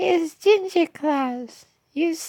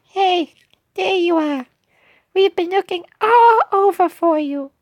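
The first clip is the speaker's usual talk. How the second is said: British voice. Acted. Friend finds the missing cookie, British voice. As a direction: play the character with a British accent. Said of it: "I'm doing the British voice".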